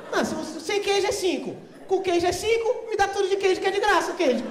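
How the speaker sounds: loud, high, laughing rant; worked-up arguing. Retold or imitated. Arguing with the clerk, a loud high laughing rant. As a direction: push the cheese logic hard.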